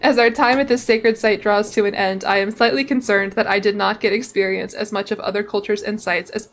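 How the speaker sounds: reading game text aloud as a tale; story narration. Acted. Streamer reading the pilgrimage's end to viewers, story narration. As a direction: narrate it like a travel chronicle.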